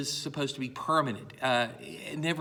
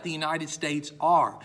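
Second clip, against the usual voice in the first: "are" landed firmly at the end; stress on "are"; 3 dB louder than usual. Shown as a demonstration. Teacher quoting early American usage, stressed "are". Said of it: "putting the emphasis on the word states".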